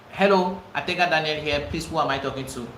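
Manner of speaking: calm, polite phone greeting; professional greeting. Shown as a demonstration. Coach showing how to greet a client on the phone, calm and polite. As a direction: answer like a composed professional.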